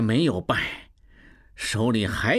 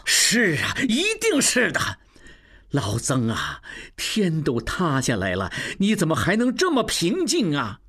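agitated. Acted. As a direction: press him in alarm. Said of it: "望柏叫道".

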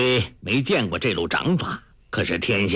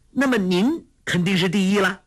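put-on higher girlish voice, bright with glee; clapping, delighted; 9 semitones higher than usual. A narrator's reading. Girl clapping at the old beggar, gleeful. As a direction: cheer him on like a clever girl. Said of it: "黄蓉拍手说".

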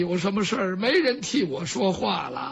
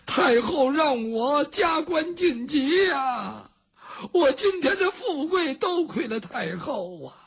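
hammed-up weeping; 5 semitones higher than usual. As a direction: overdo the grateful weeping. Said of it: "这郭槐哭起来了".

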